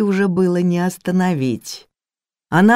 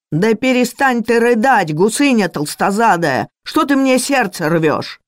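higher, louder exasperated scolding; angry yelling; 6 semitones higher, 3 dB louder than usual. Acted. Cook yells at the crying maid, higher louder angry scolding. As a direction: yell at her to stop crying.

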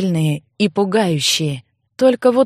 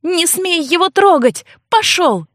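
squeaky shout; 9 semitones higher than usual. Acted. Girl fights off monster.

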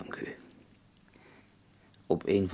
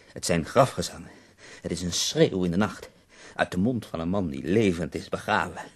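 impassioned; 4 dB louder than usual. Acted. Poet extols his own verses.

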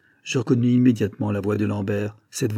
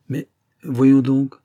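slow, louder, drawn-out coaxing; 3 semitones higher, 7 dB louder, much slower than usual. A narrator's reading. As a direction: stretch it out to coax him. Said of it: "d'une voix câline". (voix câline, traînante)

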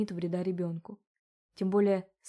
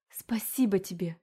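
urgent whispered thanks; whispering. A narrator's reading. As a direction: thank him in a hushed whisper. Rescued mother thanks demon.

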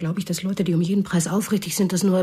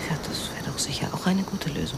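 whisper; 3 semitones lower, 5 dB quieter than usual. Acted. Woman prodding the girl.

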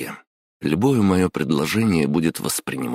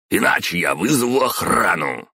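higher, shouted threat; angry shout; 6 semitones higher, 3 dB louder than usual. Acted. Boss threatening the intern with security, shouting. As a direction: yell the threat to call security. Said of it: "внезапно повысил голос Самай".

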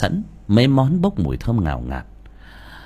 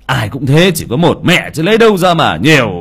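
reproachful; 4 dB louder than usual. Acted. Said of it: "trách vợ".

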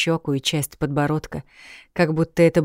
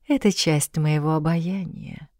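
languid purr. Acted. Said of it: "томно промурлыкал молодой баттер".

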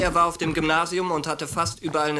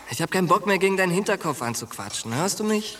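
frustrated outburst; 4 semitones higher than usual. Acted. Frustrated friend loses patience.

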